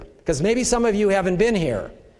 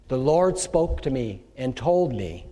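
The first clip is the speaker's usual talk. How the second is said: quoting a believer; 6 semitones lower than usual. Retold or imitated. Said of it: "They say".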